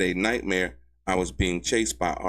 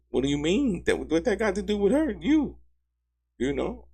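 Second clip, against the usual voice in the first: exasperated disbelief; 11 semitones higher than usual. Real, not acted. Exasperated rhetorical questions.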